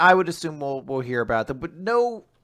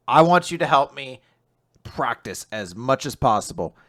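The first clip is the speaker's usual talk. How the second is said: louder and insistent, paced with pauses; suggestive offer; 6 dB louder than usual. Retold or imitated. Voicing Asumi asking Yuiga for practice help, louder teasing insistence. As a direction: lay out the deal with a hint of tease.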